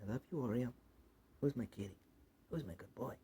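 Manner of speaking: soft cooing to a cat; tender pet talk. Real, not acted. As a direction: murmur fondly to your pet.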